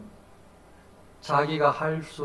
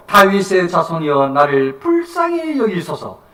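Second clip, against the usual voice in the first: loud, drawn-out plea; crying out; 7 dB louder than usual. Acted. Blind beggar calling to Jesus for mercy, crying out. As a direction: call out slowly for mercy. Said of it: "더욱 크게 소리 질러".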